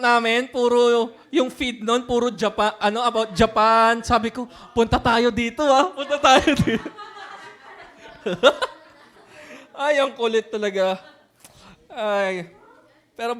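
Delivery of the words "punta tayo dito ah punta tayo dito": eager. Retold or imitated. Retold eager suggestion.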